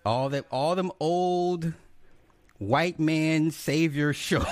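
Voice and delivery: high, slow, drawn out through laughter; laughing. Real, not acted. Husband teasing about wife's old shows, laughing. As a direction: tease with a laugh breaking in.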